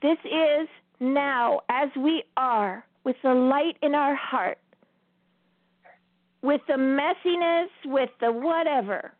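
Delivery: slow, drawn-out inspirational message; slow uplifting address. Acted. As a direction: tell them slowly that all are welcome.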